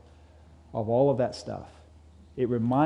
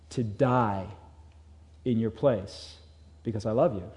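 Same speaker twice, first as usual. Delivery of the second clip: loving God. Acted. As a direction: fade to a tender close. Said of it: "He's trying to communicate to us".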